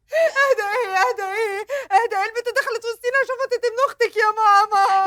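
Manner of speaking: tearful complaint to mother; sobbing protest; crying protest. Acted. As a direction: whine it through tears.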